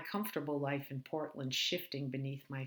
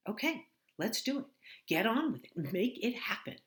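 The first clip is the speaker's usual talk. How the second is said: higher, chirpy movie-line delivery; stilted bad actor; 8 semitones higher, 4 dB louder than usual. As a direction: say it like a TV catchphrase. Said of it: "like listening to a bad actor recite lines".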